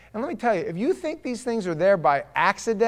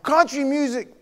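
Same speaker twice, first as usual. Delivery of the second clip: high, loud incredulous cry; hammed-up horrified outburst; mock outrage; 9 semitones higher, 8 dB louder than usual. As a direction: exclaim it as if appalled. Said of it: "I was like".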